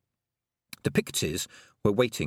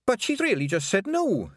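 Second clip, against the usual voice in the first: higher and louder blurted protest; burst out; 12 semitones higher, 4 dB louder than usual. A narrator's reading. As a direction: blurt it before anyone stops you. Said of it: "Fionn burst out".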